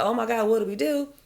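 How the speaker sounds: hammed-up alarmed bystanders; mock panic. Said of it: "everyone's freaking out like".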